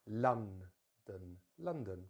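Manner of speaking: LONDON with LON stressed, then a weak DON; stress on first syllable. Shown as a demonstration. Teacher showing students where London's stress falls, first-syllable stress. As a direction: hit the start of London, let the end reduce. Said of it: "stress is normally at the beginning".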